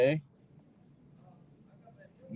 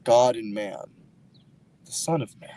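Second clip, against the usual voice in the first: slow, weighty dramatic pronouncement; solemn, over-dramatic declaration; overly dramatic; slower than usual. Real, not acted. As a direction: draw it out dramatically, with heavy pauses. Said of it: "Am I being too dramatic or something?".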